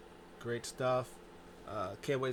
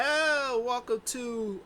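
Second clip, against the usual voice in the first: high excited greeting; 10 semitones higher, 5 dB louder, much slower than usual. Retold or imitated. Imitating Bayley as host.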